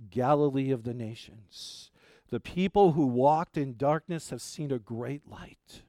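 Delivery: deliberate Bible reading, slowing toward the end; scripture reading. Acted. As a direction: read the verses out to the congregation. Reads Isaiah aloud.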